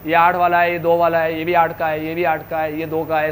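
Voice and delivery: low, even run-through of a count; lightly voiced gardener. Gardener counting flowers plant by plant for the teacher, lightly voiced. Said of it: "ऐसे बताएगा ना".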